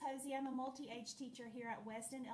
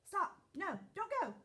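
warning shout; 7 semitones higher, 4 dB louder than usual. Acted.

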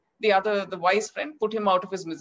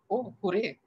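high, louder joyful hooray; delighted cheer; 4 semitones higher, 3 dB louder than usual. Retold or imitated. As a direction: cheer as if the news made her day. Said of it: "And she's like".

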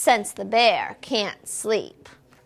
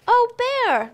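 high, louder little mouse cry; squeaky mouse; 11 semitones higher, 4 dB louder than usual. A narrator's reading. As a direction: squeak out his name like a fretting mouse. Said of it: "Mouse squeaks".

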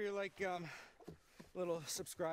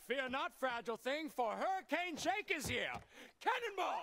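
heroic rescuer; 5 semitones higher, 3 dB louder than usual. Acted.

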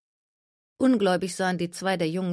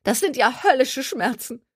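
whining Gertie; 8 semitones higher, 3 dB louder than usual. A narrator's reading. Gertie in pain.

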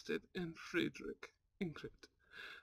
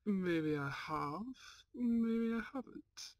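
teasing; 4 semitones higher, slower than usual. Acted. Henry teasing Ingrid about secret.

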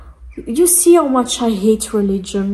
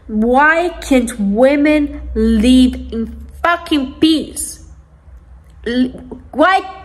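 real anger; slower than usual. Real, not acted. Angry vlogger asking why women get no peace, exasperated. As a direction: draw the question out, angry and incredulous. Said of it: "now I'm so angry".

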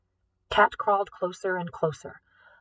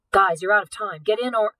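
urgent yell, louder; yelled warning; 5 dB louder than usual. Acted. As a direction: shout it to hurry them along. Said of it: "just as Simon yelled".

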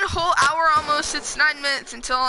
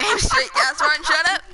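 mocking echo; 4 semitones higher than usual. Friend mockingly echoes command.

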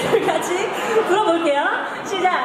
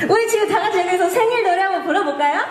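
excited; 5 semitones higher, much faster than usual. Real, not acted. Rallying the concert crowd.

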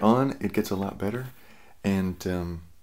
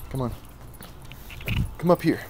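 commanding a dog; 5 semitones higher, faster than usual. Real, not acted. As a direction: call the dog up sharply. Calling the dog closer.

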